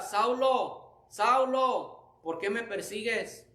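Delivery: a hint of a divine summons; voice from heaven. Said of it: "oí una voz que decía".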